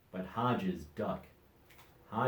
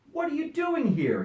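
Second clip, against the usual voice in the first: higher, louder surprised shout; 4 dB louder than usual. A narrator's reading. Dodsworth shouting at the hidden duck. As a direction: yell at the stowaway. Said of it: "he shouted".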